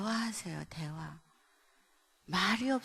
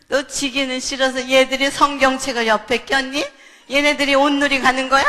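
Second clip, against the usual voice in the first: loud, raised-pitch sarcastic retort; acted scolding shout; 4 semitones higher, 18 dB louder than usual. Mother disputes child's church excuse, loud scolding. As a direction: shout back as a disbelieving parent.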